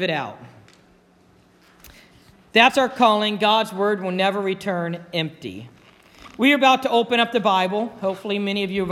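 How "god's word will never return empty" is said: softer, settled repeat of the key line; quiet restatement. Shown as a demonstration. Preacher to congregation, gently repeating the key verse. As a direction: let it land gently as a conclusion.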